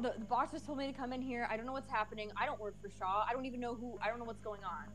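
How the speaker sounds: soft, hushed plea of innocence; feigned ignorance. Acted. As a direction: play clueless, keep the voice down. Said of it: "I'm just gonna say".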